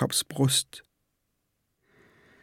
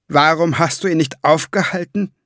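loud, high, furious reproach; angry reproach; 6 semitones higher, 5 dB louder than usual. Acted. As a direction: demand it in cold rage.

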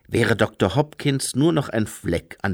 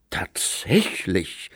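whisper; 3 semitones lower, much slower than usual. Acted. Doctor's doubtful reply.

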